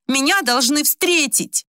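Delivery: high, slow and indignant; displeased. Acted. Old woman rejecting the flowers, displeased and high. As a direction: push him away with your voice. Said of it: "Недовольно отодвинула букет и сказала".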